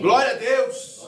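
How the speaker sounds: fervent call out. Real, not acted. Stirring up the congregation.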